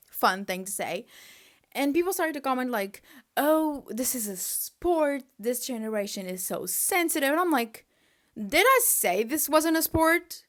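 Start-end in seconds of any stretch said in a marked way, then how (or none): 3.4-7.3 mocking commenters. Mimics dismissive commenters. 8.4-10.4 higher and louder exasperated question; indignant retort. Retold or imitated. Indignant reply to commenters.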